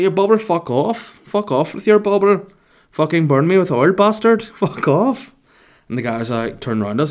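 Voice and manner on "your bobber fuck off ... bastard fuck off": high, loud outrage in a put-on accent; mock angry accent. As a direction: yell him away, hammed up. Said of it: "he's speaking like this to this guy".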